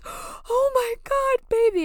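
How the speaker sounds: very high, stretched-out cry of alarm; worried husband. Retold or imitated. Husband finding his wife collapsed by the road, alarmed high cry. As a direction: rush to her in shock. Husband finds her breaking down.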